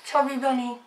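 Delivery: cheeks stuffed full; garbled mouthful. Real, not acted. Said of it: "talking with things in my mouth".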